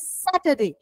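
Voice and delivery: corrective Saturday, falling, R dropped; Saturday without R. Shown as a demonstration. Teacher gives the pronunciation, no R in Saturday. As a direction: model Saturday with no R. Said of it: "Its pronunciation is".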